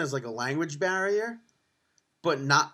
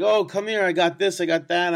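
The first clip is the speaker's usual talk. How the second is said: street vendors calling; 3 semitones higher, 5 dB louder than usual. Retold or imitated. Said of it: "everyone's like".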